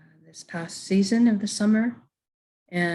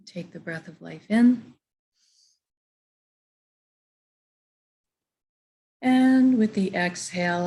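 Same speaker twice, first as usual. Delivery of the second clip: calm, unhurried breathing guidance with long pauses; guided meditation. Real, not acted. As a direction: guide listeners gently through each breath.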